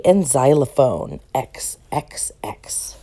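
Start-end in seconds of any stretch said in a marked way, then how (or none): 1.3-3.0 soft whispered letters. Acted. Reading an alphabet book aloud to a child, whispered. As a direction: breathe the letters out like a secret.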